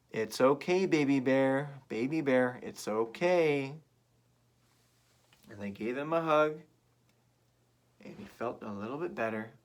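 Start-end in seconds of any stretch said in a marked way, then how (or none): 0.1-3.8 louder reassuring chant; comforting. Shown as a demonstration. Comforting Baby Bear with the listeners, reassuring. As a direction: soothe the cub. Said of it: "let's all say this again, together".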